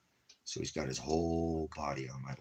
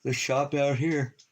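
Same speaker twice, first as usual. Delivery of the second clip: loud, slow, high exasperated blurt; drawn-out fed-up exclamation; annoyed outburst; 10 semitones higher, 9 dB louder, slower than usual. Real, not acted. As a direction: spit out the shop's name in frustration. Angry outburst about the shop.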